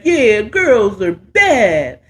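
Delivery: mock men's voice, rising and laughing; mocking the hosts. Mocking the show's hosts to the brothers, laughing, rising. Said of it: "that whole show is y'all sitting up is like".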